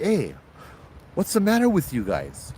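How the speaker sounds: a touch of irritation, pitch up, scolding the villagers; the traveler scolds the man fixing his cart, mildly annoyed; annoyed complaint. Acted. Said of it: "the traveler is just like".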